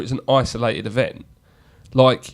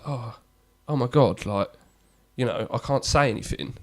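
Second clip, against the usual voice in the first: timid mock; 7 dB quieter than usual. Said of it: "I wouldn't be like".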